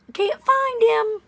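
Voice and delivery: high, slow, oddly breezy; mock casual tone. Mocking how the father reported his son missing, breezy. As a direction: make it sound unbothered. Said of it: "You would not say it like that".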